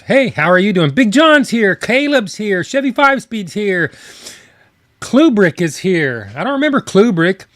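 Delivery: bright upbeat shout-outs; cheerful greetings. Real, not acted. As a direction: greet each chatter warmly. Greeting chatters by name.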